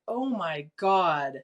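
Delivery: slow, stunned under the breath; drawn-out, amazed imitation of herself; awed. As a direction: let the realisation sink in slowly. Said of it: "And so I was like".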